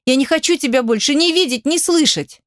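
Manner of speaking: shouting. A narrator's reading. She screams she never wants to see him. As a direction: keep yelling her refusal at him. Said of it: "закричала она".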